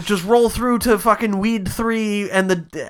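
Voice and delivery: high-pitched, hustling crew boss; mock frantic urging. Crew boss hurrying someone through the show, mock frantic urging. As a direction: urge them along in a hammed-up panic.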